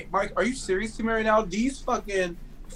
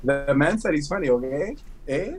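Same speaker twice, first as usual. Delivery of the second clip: put-on Toronto accent; 4 semitones lower than usual. Co-host showing off Toronto talk, in a lower Toronto accent. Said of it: "that's a Toronto accent right there".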